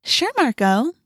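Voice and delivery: high, sing-song humouring with a lift at the end; mock sweetness. Girl batting eyes at boy, mock sweet. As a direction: flatter him with obvious insincerity. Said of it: "She batted her eyes".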